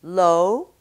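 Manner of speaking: English vowel in the contrast drill; English diphthong. Shown as a demonstration. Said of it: "In English".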